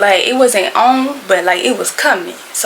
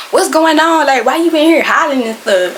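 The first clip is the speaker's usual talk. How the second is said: higher-pitched mock alarmed kids; raised, incredulous questioning; kids' startled questioning; 5 semitones higher, 3 dB louder than usual. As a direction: imitate kids demanding to know what's happening. Kids questioning her, voiced in story.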